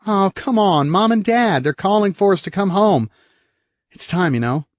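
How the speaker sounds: put-on high, bright-eyed kid whooping then chatting; little brother bragging about his fall; cheerful little boy. Eric voiced as a boy.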